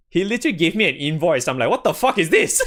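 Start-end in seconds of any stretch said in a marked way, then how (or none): 1.7-2.6 high, laughing retold shock; laughing disbelief. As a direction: blurt it out through laughter, baffled. Retold shock at friend's invoice.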